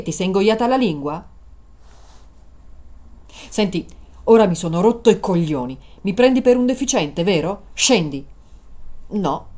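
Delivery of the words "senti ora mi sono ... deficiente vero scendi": louder, fed up; angry. Acted. Driver ordering the passenger out of his car, furious. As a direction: throw her out of the car in a temper.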